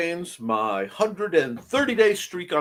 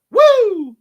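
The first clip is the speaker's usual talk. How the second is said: excited whoop; 7 dB louder than usual. Retold or imitated. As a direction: cheer yourself out of bed. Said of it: "and I went".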